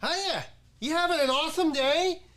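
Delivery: high, loud, over-perky server; peppy high-pitched customer-service voice; counter girl. Retold or imitated. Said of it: "the girl behind the counter, she goes".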